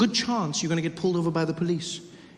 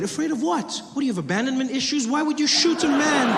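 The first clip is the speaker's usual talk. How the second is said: higher, mock-outraged questions; incredulous questioning; 6 semitones higher than usual. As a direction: grill him in disbelief.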